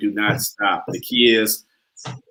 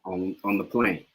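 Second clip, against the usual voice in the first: British accent, softer at the end; British accent attempt; 3 semitones lower, 8 dB quieter than usual. Shown as a demonstration. Student repeating after the dialect coach, British accent. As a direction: finish softly in a studied British accent. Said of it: "he's a natural at the British accent".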